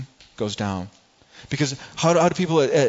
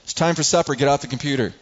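irritated call. Retold or imitated. Dad calling the kids to supper a third time, irritated. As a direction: snap the reminder, patience gone. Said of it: "'cause I'm getting irritated".

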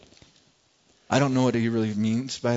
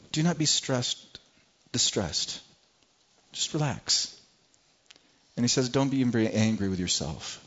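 softer, gentle reassurance; kind, gentle; 4 dB quieter than usual. Acted. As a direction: soothe them kindly. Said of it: "do you hear the kindness".

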